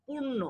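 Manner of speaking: পূর্ণ said alone, firm and falling; stress on পূর্ণ. Shown as a demonstration. Teacher naming the stressed word for students, firm stress on পূর্ণ. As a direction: lean hard on পূর্ণ. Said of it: "কোন শব্দটার উপর আমি জোর দিচ্ছি".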